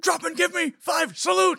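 high, loud drill instructor bark; barking gym coach. Retold or imitated. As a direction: yell orders at recruits. Drill instructor order again.

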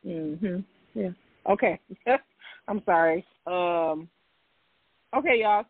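ordinary talk, nothing marked

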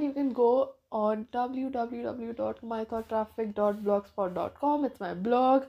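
stuffy-nosed speaking; nasal voice. Real, not acted. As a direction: talk through a blocked nose. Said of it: "so that's why I sound very nasally".

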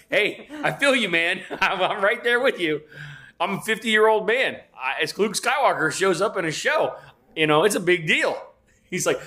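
high-pitched, laughing, gushing fan talk; excited retelling. Retold or imitated. Reliving his reply to the weightlifter, high excited gush. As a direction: bubble over about Luke and Batman.

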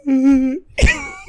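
high-pitched fake whimper; high mocking cry. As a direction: imitate a friend's sobbing, half laughing. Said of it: "Corey was crying?".

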